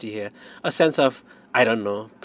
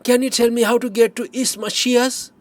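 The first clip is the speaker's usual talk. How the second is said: much higher, loud, brash tourist calling out; city tourist; 13 semitones higher, 6 dB louder than usual. A narrator's reading. Tourist from Chicago calls out to old farmer, high and loud. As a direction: hail the old farmer like a pushy city slicker. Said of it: "Tourist leans out of his Jaguar and says".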